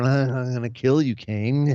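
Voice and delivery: slavering monster. Retold or imitated. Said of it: "slavering over".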